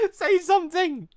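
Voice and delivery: high, pleading shout; desperate yell. Acted. Pleading with Ty, a high desperate shout.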